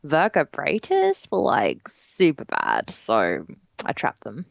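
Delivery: mock the ghost queen as a valley girl. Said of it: "one of the other ghosts will get that voice".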